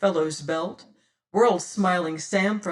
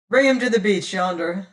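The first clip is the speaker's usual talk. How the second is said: a lightly voiced cold captain's order, louder; pirate captain; 6 dB louder than usual. Pirate captain ordering his crew to the beach, cool and commanding.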